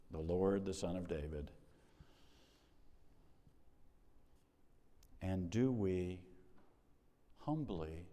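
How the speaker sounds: subdued, measured sermon reflection; reflective preaching. Real, not acted. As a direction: quietly put searching questions to the congregation. Closing reflective questions to congregation.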